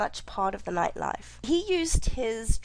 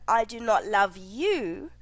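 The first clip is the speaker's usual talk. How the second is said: "I" hit first, slow; slow, weight on "I"; stress on I. Shown as a demonstration. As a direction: punch the word "I" again. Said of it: "But in number one".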